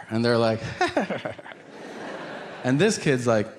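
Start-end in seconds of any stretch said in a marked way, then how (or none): 1.8-2.6 soft voiceless mock giggle; short put-on giggle like a toddler; imitated toddler laugh. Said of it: "they laugh at manufactured anger".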